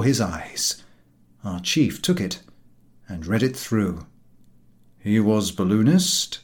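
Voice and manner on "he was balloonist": querying. Acted. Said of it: "queried the chief".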